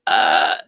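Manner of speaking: low, loud drawn-out "uh"; loud, low groan of disbelief; dismissive uh. Retold or imitated. Answering an online Vulcan accent complaint, loud exasperated uh.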